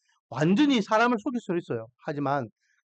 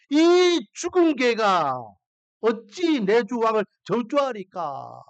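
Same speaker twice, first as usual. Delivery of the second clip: indignant general; 2 semitones higher, slower than usual. Retold or imitated. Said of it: "왕께 여쭤가되".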